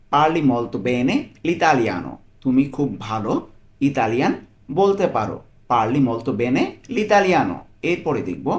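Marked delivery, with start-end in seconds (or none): 0.1-2.1 very slow, every syllable laid out; slow model phrase. Shown as a demonstration. Teacher models the Italian phrase for a learner, very slowly. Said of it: "পুরোটা একসাথে কি বলতে পারি?". 5.7-7.6 very slow, every syllable laid out; slow model phrase. Shown as a demonstration. Teacher models the Italian phrase for a learner, very slowly. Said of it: "পুরোটা একসাথে কি বলতে পারি?".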